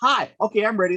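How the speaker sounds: high-pitched, flustered phone patter; frantic rescheduling. Retold or imitated. Retells frantic calls to reschedule.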